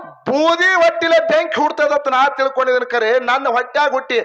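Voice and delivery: acted motherly outrage; angry mother. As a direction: scold the son as his furious mother. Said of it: "ತಾಯಿ ಸಿಟ್ಟಿಗೆ ನೋಡಿದಳು".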